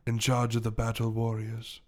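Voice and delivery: measured storytelling with long pauses; English gentleman gorilla. Acted. Gorilla recounting his past to the detective, measured English voice. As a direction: tell a life story slowly in an English accent.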